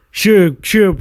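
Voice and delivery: high, loud eager sure sure; excited. Retold or imitated. Montez happily sharing the red cup, excited agreement. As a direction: bounce up with enthusiasm.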